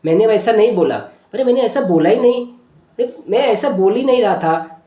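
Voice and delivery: mildly indignant, insistent denial; defensive child. Retold or imitated. Boy denying his sister's accusation, defensive and insistent. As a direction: stand your ground, stressing each denial. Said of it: "now in a defined mode".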